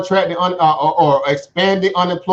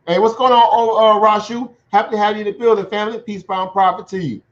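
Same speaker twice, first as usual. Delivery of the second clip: excited greeting; 4 semitones higher than usual. Real, not acted. Greeting a viewer in chat.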